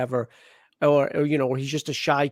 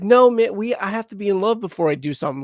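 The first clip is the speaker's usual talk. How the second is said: higher-pitched mock naive protest; naive younger self; 4 semitones higher than usual. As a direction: imitate your foolish younger self, voice raised. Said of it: "the stupid me was just like".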